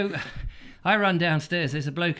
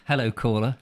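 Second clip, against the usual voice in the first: mock radio host; 9 semitones lower, 5 dB louder than usual. Partner answers like a radio host, mock. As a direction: lower mock phone-in host voice.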